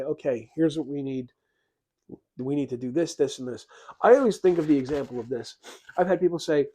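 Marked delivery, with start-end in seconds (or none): 0.0-3.7 calm and rational. Retold or imitated. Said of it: "calmly and rationally say".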